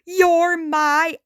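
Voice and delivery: slow, starstruck gush; gushing with glee. Acted. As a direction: meet your hero and melt a little. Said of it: "he gushed with glee".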